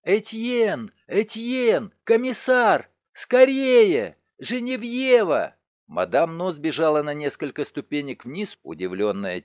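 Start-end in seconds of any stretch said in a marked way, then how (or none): 0.0-5.5 loud, high calls rising to a scream; frightened cry. Acted. Madame No shouts from the stairs for help, terrified and loud. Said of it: "испуганный крик".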